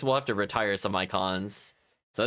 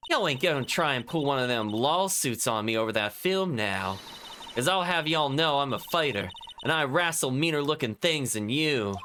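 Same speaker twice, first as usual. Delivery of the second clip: scolding country twang. Acted. Lotta voiced.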